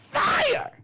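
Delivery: sudden high shout on the last word; hype shout. Real, not acted. Host hyping his own monologues, sudden high shout. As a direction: yell it like a hype man.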